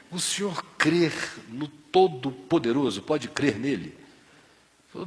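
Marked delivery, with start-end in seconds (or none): 0.1-3.9 "O senhor crê no Todo-Poderoso?" repeated slowly, stressing "crê"; slow deliberate repeat. Retold or imitated. Father repeats the question to a confused seu Barros, slow and clear. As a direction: spell out "crê" slowly so he hears it.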